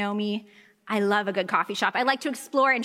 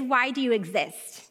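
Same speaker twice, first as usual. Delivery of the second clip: mock disdain. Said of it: "What they're really saying is".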